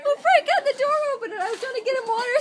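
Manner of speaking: loud, fast laughing talk; blurting it out while laughing hard. Real, not acted. Laughing explaining the hot water.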